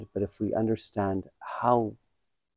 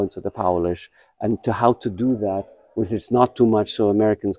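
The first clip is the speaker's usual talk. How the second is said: Polish accent; 5 dB louder than usual. Shown as a demonstration. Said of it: "was really spot on".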